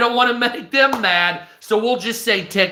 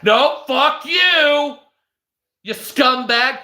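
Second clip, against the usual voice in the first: mock angry refusal; 5 semitones higher, 3 dB louder, slower than usual. Platform refusing money.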